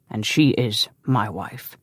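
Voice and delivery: slow, stiff, barely moving lips; stiff and tight-lipped. Acted. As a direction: say it through tight lips, slowly. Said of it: "Stephen was very stiff, his lips hardly moving".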